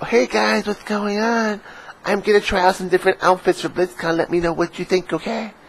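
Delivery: very high, mock girly vlogger voice; imitated girl gamer. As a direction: put on a falsetto to mimic a girl greeting her viewers. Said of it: "this girl gamer is going to BlizzCon, and she's like".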